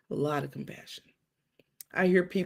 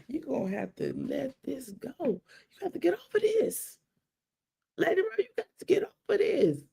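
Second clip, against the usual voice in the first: imitating a cousin's hushed, higher whisper; mock whisper; 9 semitones higher than usual. Cousin at the funeral, a mock whisper in her ear. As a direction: lightly mimic a pushy whisper in the ear. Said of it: "she whispered in my ear".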